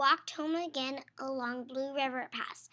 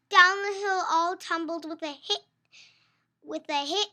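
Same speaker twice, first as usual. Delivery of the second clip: excited; 2 semitones higher, 11 dB louder than usual. Acted. Tumble down hill.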